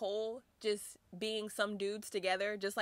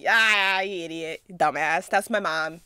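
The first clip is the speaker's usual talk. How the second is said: imitating a furious rant, louder; mock angry rant; 2 semitones lower, 10 dB louder, slower than usual. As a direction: rant at the fan like Chenla did. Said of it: "He's like".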